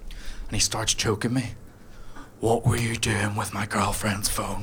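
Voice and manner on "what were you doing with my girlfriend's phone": slow, heavy gym bro voice; big bloke menace. Retold or imitated. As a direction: lean on every word like a huge angry bodybuilder. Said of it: "this fridge of a man".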